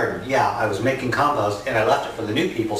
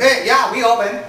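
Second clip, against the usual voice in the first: higher, louder mock Chinese accent; imitated restaurant lady's accent; 10 semitones higher, 5 dB louder than usual. Restaurant lady answers the phone to a customer, imitated Chinese accent. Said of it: "make it sound like what she sounded like to me".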